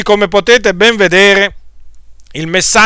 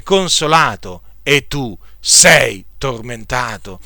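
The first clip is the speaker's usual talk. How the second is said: scripture reading. Acted. Preacher reading the rich man and Lazarus to listeners, solemn. Reads Luke 16 parable aloud.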